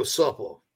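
"supple" for "supper", ending in an l; "supple" as the coach says supper; Shane's supper. Shown as a demonstration. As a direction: say "supple" with an l at the end. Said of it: "if he was pronouncing the word supper".

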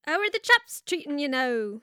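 put-on failed Irish accent that lands as Australian; clumsy Australian-sounding Irish accent; botched Irish accent. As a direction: attempt Irish, come out Australian. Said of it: "say it with an Australian accent".

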